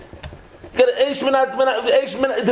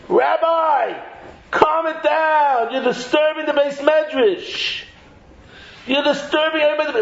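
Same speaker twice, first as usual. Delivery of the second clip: higher-pitched, acted scolding; mock complaint; 4 semitones higher than usual. Study-hall complainer to a noisy learner, mock scolding. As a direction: plead for order, pitched up.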